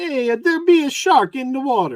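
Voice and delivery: bad put-on Italian accent. Joking about an Italian shark movie, doing a bad Italian accent. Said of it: "That's my Italian accent".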